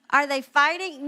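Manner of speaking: put-on fretting kid on the edge of meltdown; mock anxious child.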